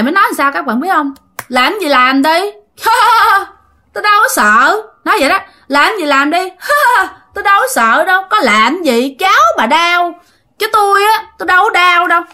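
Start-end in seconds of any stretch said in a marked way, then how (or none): 1.5-2.4 mocking ghost taunt. Possessing ghost taunts the grandmother. 2.8-3.4 high, loud taunting cackle; mocking ghost laugh. 3.9-4.8 high, louder mocking retort; cocky ghost scoff. 5.7-6.4 mocking ghost taunt. 6.4-7.1 mocking ghost laugh. 7.3-12.2 high mocking ghost. Ghost mocks the threat, voice rising.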